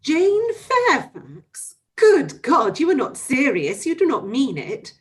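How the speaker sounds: Emma, horror-struck, crying out in disbelief; horror-struck exclamation. Acted. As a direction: Emma reeling at the shocking news.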